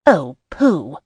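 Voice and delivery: teasing mock-stern rebuke; mock severity. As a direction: pretend to be cross, lightly. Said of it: "with mock severity".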